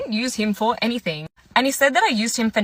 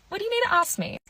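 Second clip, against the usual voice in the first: high, softer what do you need; wary question; 10 semitones higher, 5 dB quieter, faster than usual. Retold or imitated. To the date, high and wary. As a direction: raise it up, suspicious. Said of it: "I'm like".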